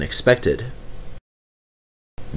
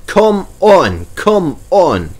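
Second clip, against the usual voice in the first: puffing; 8 semitones higher, 4 dB louder, much slower than usual. Acted. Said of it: "puffed Duck".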